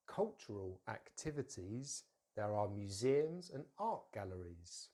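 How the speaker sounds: slow, careful teacher dictation; measured, clearly articulated sentence; slow model. Shown as a demonstration. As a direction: spell out each stressed syllable for learners.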